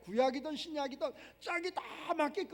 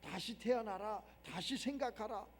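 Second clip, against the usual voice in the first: hushed command; 5 semitones lower, 10 dB quieter than usual. Retold or imitated. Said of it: "예수님 가르쳐 주잖아".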